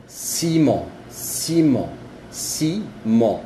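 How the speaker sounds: ciment with a nasal end; French ciment, nasal; French demo word. Shown as a demonstration. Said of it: "el mismo sonido".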